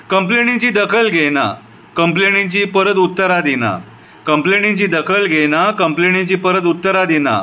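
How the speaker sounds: repeated refrains with falling line ends; poem recitation. Shown as a demonstration. Citizen reciting a poem about the police, measured recitation. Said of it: "आतां कविता बरयल्या ती आयका".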